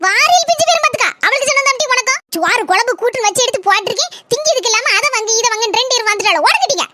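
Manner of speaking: put-on exasperated mother telling off the children; angry scolding. Mother shooing children who want kothu parotta, cross scolding. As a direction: scold the pestering kids crossly. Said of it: "இது ஏன் இப்படி கோவத்துல இருக்க?".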